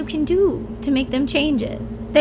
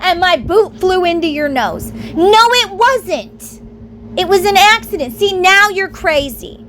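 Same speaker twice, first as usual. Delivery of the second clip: gaslighting denial; 5 semitones higher than usual. Retold or imitated. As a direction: brush her off like the guilty partner. Abusive partner denies kicking her.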